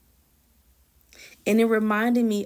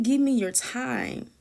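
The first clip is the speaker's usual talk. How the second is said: slow, deliberate Give me your time with weight on me; different, weightier ask; 3 semitones higher, slower than usual. Retold or imitated. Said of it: "it wasn't in the way that he was normally asking me".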